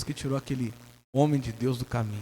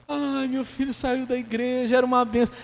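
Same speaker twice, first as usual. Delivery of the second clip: mock lament; 11 semitones higher, 3 dB louder than usual. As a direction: mourn the son who left, hammed up. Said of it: "É a primeira a chorar".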